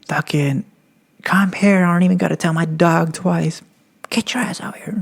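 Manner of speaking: high-pitched mock cop; retold police threat, pitched well up; imitated cop threat. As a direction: order them out as an impatient cop. Acting the cop threatening him.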